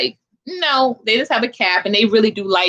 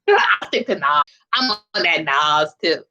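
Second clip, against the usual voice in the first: laughing through "I'll stick to Nas" with a low, amused voice; 4 semitones lower, slower than usual. Real, not acted. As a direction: chuckle through the punchline. Laughing repeat of own quote.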